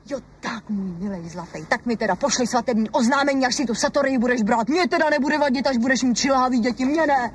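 high, biting and hurt; the wife sarcastic about the neighbour's pet name; jealous sarcasm. Acted. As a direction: jab at him with bitter sarcasm.

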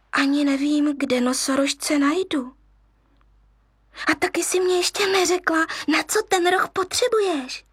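high, quick doubting little lion; a cub wary of the monkey; hesitant cub. Acted. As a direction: question her, unsure.

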